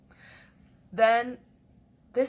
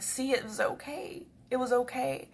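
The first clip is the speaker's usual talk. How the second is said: softly soothing; gentle reassurance; 2 semitones higher, 4 dB quieter than usual. Retold or imitated. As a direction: reassure a pet tenderly. Reassuring cats after work.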